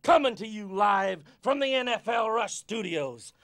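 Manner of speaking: hyped-up coach. Acted. Coach hyping up a workout.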